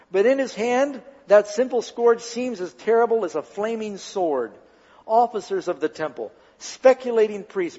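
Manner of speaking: measured, emphatic story reading; dramatic narration. A narrator's reading. Preacher reads the temple story to listeners, dramatic narration. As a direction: read it out with solemn drama.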